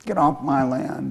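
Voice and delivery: a hint of a squeaky, defiant mouse. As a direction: squeak up to a big intruder, lightly voiced. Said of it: "squeaked up and said".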